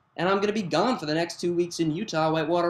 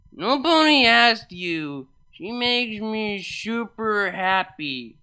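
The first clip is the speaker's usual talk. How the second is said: slow, slurred and louder; drunk slurring Vinyl; 5 semitones higher, 4 dB louder, slower than usual. Acted. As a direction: slur it out like she's wasted.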